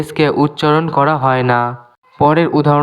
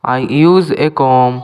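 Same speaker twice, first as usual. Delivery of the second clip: slow, clear English for learners; careful dictation pace; slow teaching demo; much slower than usual. Shown as a demonstration. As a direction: spell each word out slowly for students. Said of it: "এখানে বি লেখা আছে কিন্তু বলা হয় না।".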